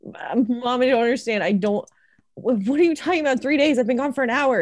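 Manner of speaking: a lightly acted sobbing plea; mock sobbing. Elliot sobs to mom on the phone, confused and pleading. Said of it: "she's sobbing".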